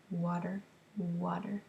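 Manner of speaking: soft "Water, water" with a light rise; gently modelled word. Shown as a demonstration. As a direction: say "water" twice softly with a lift at the end. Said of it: "as I emphasized that word water".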